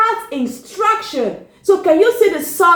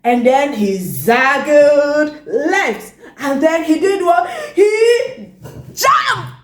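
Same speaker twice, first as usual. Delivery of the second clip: pretend excitement. Teacher acting out the fish's leap for the children, building excitement. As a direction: act out the leap with rising thrill. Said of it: "Now let's pretend".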